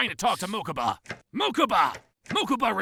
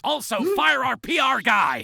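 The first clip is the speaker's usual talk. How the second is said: louder and higher command; bossy order; 6 semitones higher, 5 dB louder than usual. Acted. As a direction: snap the order out. Boss barks an order.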